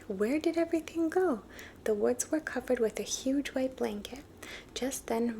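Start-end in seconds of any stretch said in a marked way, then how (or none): 0.1-1.4 high, louder little squeak; squeaky yelp. A narrator's reading. Little Deer waking to snow, a high startled squeak. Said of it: "he squeaked".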